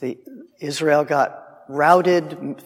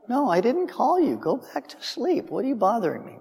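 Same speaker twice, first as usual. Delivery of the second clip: put-on pitched higher, exasperated old priest; mock annoyed; 6 semitones higher, 4 dB quieter than usual. Eli woken a second time by Samuel, irritated and higher. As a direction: shoo the kid away, fed up.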